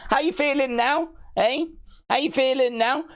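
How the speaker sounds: high, sing-song teasing questions; mock taunting. To the chat, high sing-song taunting. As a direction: needle them like a playground bully.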